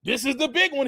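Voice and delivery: ordinary talk, nothing marked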